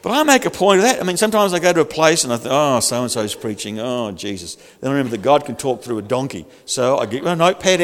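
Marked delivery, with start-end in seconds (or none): 2.5-4.5 low, weary inner groan of a quote; mock dismay. Preacher recalls dreading who's preaching, in mock dismay. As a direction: let the disappointment sag, slightly slower and lower.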